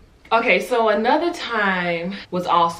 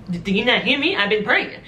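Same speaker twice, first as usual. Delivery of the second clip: frustrated complaint; 4 semitones higher, 4 dB louder than usual. Retold or imitated. Arguing with her mom on phone.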